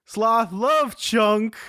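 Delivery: super slow sleepy sloth; Sloth from The Goonies. Retold or imitated. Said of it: "That's my Sloth impression".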